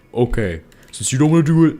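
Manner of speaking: anger rising to a high peak; drill-sergeant yell. Shown as a demonstration. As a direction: demonstrate an angry order that jumps up an octave. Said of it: "Just pick up an octave".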